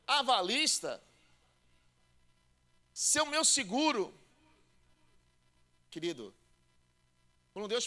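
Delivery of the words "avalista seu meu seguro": high, pleading objection in a believer's voice; doubting believer. Retold or imitated. Believer questioning the pastor, pleading high. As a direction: mimic a doubter protesting to the pastor.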